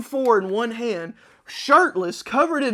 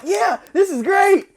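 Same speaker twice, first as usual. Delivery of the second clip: high, slow cheer; drawn-out excited yeah; 12 semitones higher, 6 dB louder, slower than usual. Retold or imitated. Team gloating while guarding the bomb, high cheer. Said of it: "we're like".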